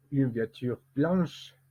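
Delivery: "une voiture blanche" slowly, lifting onto "blanche"; group-final stress. Shown as a demonstration. Teacher building a phrase, stress now on "blanche". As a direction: carry the stress along to "blanche". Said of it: "l'accent tonique se va placer à la fin".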